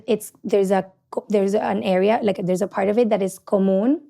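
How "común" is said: "común" said in Spanish, stressed on the last syllable; Spanish pronunciation. Shown as a demonstration. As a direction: switch to Spanish vowels for "común". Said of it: "In Spanish".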